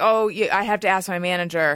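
mock sullen, surly, grudging, unhelpful tone. Retelling what the guy at the store said: imitating a surly tone. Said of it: "in this pretty surly tone".

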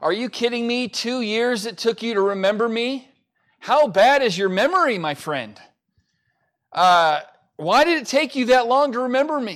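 put-on high yell. Acting out an imagined scene of Joseph confronting the butler: imitating Joseph yelling. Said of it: "Joseph got in his face and yelled".

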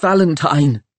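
high-pitched gasped blurt. Rushing onto the balcony to tell the others who is here, gasping. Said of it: "he gasped".

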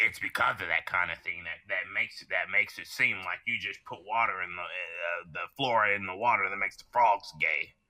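stumbling, self-interrupting broadcaster voice, restarting often. Doing a best impression in conversation about an anime: Alex Jones impression. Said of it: "That was my best Alex Jones impression".

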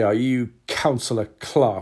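put-on smug, self-important, cheeky, condescending tone. Retelling how an old man at the door questioned the speaker, imitating a cheeky tone. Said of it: "he said it just like that".

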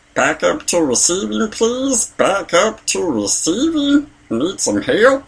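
high, slow, sing-song cartoon voice, drawn out. Retelling doing a voice over the intercom, in a Meatwad voice. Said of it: "I'm gonna do Meatwad".

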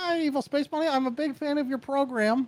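soft puppet voice. Voicing his friend on a podcast, greeting the host; Muppet-like Geoff Keighley voice. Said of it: "I don't know why I sound like a Muppet".

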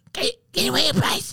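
rushed, loud whisper pushed to carry. Retelling how a woman held out her hand to stop people: retelling a loud whisper. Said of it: "she's whispering, but she's trying to get loud and whisper".

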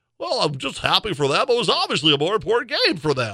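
high voice with swinging pitch. Pat Mahomes is approached after the Lions win and answers in a Kermit the Frog voice. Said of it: "Kermit the Frog voice".

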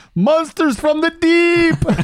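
joyful roaring shout, very high, gleeful bellow. A player's character calls out in the game before charging: gleeful bellowing shout. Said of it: "I will shout out, like bellow out, almost gleefully".

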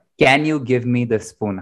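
ordinary talk

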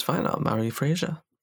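ordinary talk

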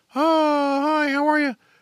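high falsetto speaking voice. Explaining why a falsetto would hurt a candidate, the speaker demos a high falsetto voice. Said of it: "if he's always talking like that".

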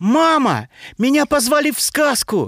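very high, ringing shout. Reading a story, a girl steps through the door at home and calls to her mother, shouting. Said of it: "закричала Дина едва переступив порог дома".

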